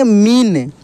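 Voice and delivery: मीन with a long ī arching up and down; drawn-out long ī. Shown as a demonstration. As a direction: stretch out the ī in मीन. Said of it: "इसका उच्चारण खींच कर होता है". (मीन की ई खींच कर)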